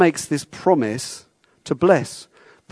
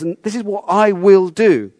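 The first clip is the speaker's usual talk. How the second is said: "I will" lifted higher and stressed; emphatic promise, pitched up on "I will"; 5 semitones higher than usual. Retold or imitated. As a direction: land firmly on "will". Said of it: "that's really strong, the "I will".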